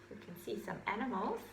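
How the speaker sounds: put-on hushed whisper to the children. Storyteller whispering to little listeners. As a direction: lean in and whisper it.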